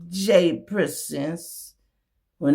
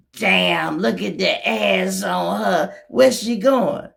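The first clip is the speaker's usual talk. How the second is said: lightly voiced cop, louder and slower; leering cops; 4 semitones higher, 4 dB louder, slower than usual. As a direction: ogle her as cops would. Acts out police at the lot.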